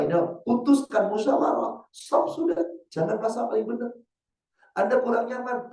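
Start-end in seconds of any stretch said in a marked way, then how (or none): 1.9-3.9 firm stop. Real, not acted. Preacher halts an argument.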